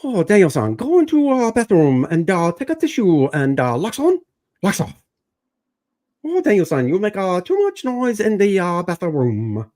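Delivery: hammed-up sensei with a mock Asian accent; half-joking movie sensei in a mock Asian accent. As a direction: play the wise old master with an Asian accent, teasing. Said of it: "I guess you could do".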